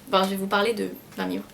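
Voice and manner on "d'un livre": talking through a mouthful; mouth full. Real, not acted. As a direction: speak with a mouthful of cookie. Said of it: "Je déteste parler la bouche pleine".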